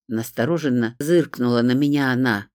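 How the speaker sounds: usual speaking voice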